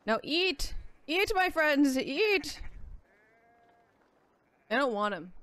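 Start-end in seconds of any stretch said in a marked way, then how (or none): 0.1-2.6 higher, lordly invitation; feeding the sheep like a lordly host; mock grand host. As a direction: play the generous lord to the sheep.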